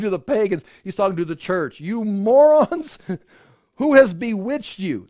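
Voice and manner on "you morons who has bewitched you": much higher and louder, very slow on "You morons", laughing into "who has bewitched you"; loud, slow, half-laughing rebuke; exasperated outburst. Acted. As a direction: bellow it like a fed-up apostle with a laugh in it. Preacher voicing Paul's exasperated rebuke.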